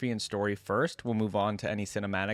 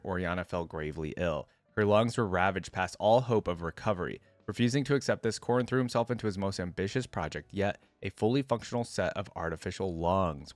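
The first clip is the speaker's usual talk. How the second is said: story narration. A narrator's reading. YouTuber reading Oriana's biography to viewers, story narration. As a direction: clear read-aloud biography voice. Reads the champion's story aloud.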